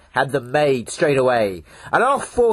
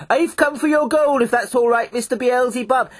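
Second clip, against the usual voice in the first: polite fourteen, lightly voiced; 8 semitones higher than usual. Fourteen politely asks Beelzebub.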